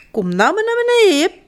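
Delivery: high, quick call. A narrator's reading. Janneke calling Jip down from the tree, calling up. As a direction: summon him down from the branches.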